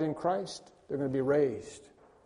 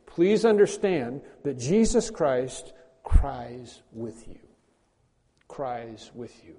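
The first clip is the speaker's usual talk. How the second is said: tender; 3 semitones lower, slower than usual. Real, not acted. Pastor comforting grieving listeners, slow tender fade. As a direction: let it fall gently to near silence. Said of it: "tender close on weeping".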